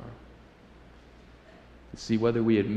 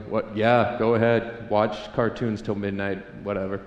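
slow, slightly lowered, indifferent parent; resigned giving in; 3 semitones lower than usual. Acted. Father letting his son stay up, resigned. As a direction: give in as if too tired to argue.

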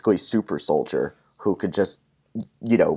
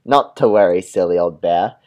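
said again, louder and firmer; louder retake; 7 dB louder than usual. Shown as a demonstration. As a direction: give the line a bigger, louder read. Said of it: "takes the line again".

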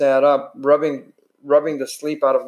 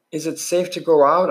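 eager; 3 semitones higher than usual. Acted. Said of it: "I asked eagerly".

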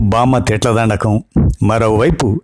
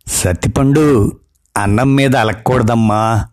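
teasing coax. Acted. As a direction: mischievously coax a sulker. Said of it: "అదే అల్లరి నవ్వు".

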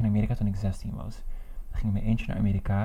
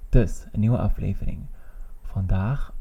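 talking while chewing gum; audible smacking between words; lip smacking. Real, not acted. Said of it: "je hoorde me echt smakken".

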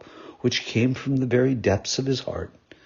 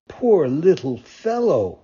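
pitying; 3 semitones higher, 4 dB louder, slower than usual. Acted. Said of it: "stopping to look at him with pity".

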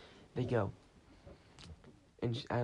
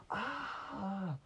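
startled yelp; 9 semitones higher than usual. Retold or imitated. Startled by door bursting open.

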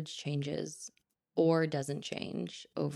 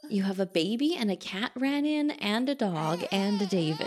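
higher, louder, delighted; excited; 4 semitones higher, 4 dB louder than usual. Real, not acted. Baby and pets arrive.

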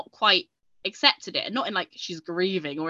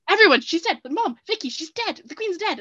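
high, loud excited yelling; loud shouting; 10 semitones higher, 6 dB louder than usual. Retold or imitated. Telling the family in the room, loud high shout. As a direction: shout the news across the house. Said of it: "kind of quite loud shouting".

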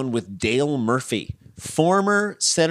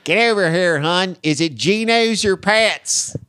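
put-on Philly accent; 4 semitones higher, slower than usual. Host riffing on Philly Zoom porn, in a hammed-up Philly accent. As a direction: lay on a thick Philly accent.

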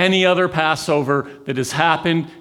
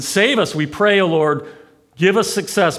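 crowd crying out; 6 semitones higher than usual. Retold or imitated. The crowd crying to the Lord as Jesus comes, fervent. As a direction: call out like the crowd at the gate. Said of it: "they're saying".

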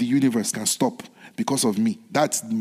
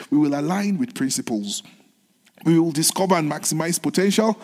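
earnest spoken prayer; preacher's steady prayer. Acted. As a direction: pray it over the congregation. Opens with prayer.

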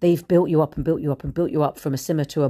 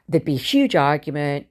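whispered; 3 dB louder than usual. Real, not acted. Recalling family arguments.

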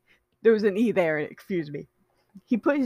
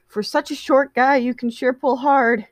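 put-on slightly higher grumbling teen; mild grumble at Patton; Virgil voice; 5 semitones higher than usual.

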